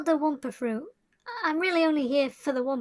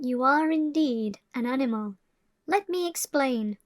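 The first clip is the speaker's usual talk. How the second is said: documentary narration. A narrator's reading. Documentary narration over music.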